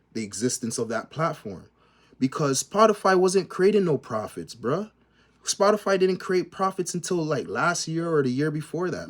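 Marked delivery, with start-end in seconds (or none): 2.2-9.1 much higher and louder, indignant; heated rant. Real, not acted. Vlogger ranting at viewers about Spotify, raised and heated. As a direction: push it out like a heated argument.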